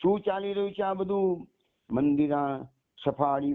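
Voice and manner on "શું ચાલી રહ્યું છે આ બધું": sharp, higher angry snap; a mother-in-law's raised, angry question; snapping angrily. Acted. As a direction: snap at the girl in a rage. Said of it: "તાડકી ઉઠ્યા".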